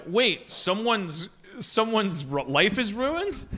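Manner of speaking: slow, halting mock bewilderment; lightly voiced baffled caveman, working it out word by word; puzzled Neanderthal. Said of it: "Neanderthals would be like".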